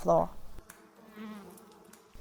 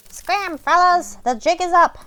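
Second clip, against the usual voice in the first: fleeing bugs; 8 semitones higher, 6 dB louder than usual. Acted. Bugs warn each other as the seat lifts, high and loud. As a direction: cry out like a panicked little bug. Bugs flee the toilet bowl.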